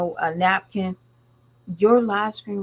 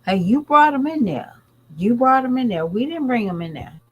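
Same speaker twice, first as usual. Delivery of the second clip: raised, pointed call-out; calling her out; 4 semitones higher, 3 dB louder than usual. Real, not acted. Talking back to the celebrity's wife, loud.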